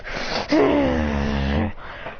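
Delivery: rough growling power-up; strained, drawn-out growl; acted power-up noise. Hero powers up his aura.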